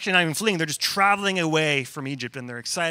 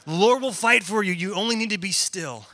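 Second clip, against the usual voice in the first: louder, higher emphatic recital; raised voice on the opening, easing towards the end; well-loved verse; 3 semitones higher, 5 dB louder than usual. Retold or imitated. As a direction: quote it brightly like a favourite slogan. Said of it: "And we love this verse".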